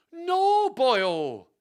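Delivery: very high, loud Welsh-ish wail; long drawn-out theatrical cry. Acted. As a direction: cry out in hammed-up protest, badly faked Welsh. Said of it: "cried Hastings".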